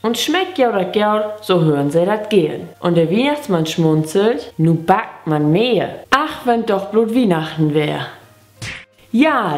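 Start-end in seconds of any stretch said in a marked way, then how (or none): 0.0-8.1 lilting, measured poem recitation; Gedichtvortrag. Shown as a demonstration. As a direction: recite a children's Christmas poem line by line. (Weihnachtsgedicht mit singendem Tonfall aufsagen)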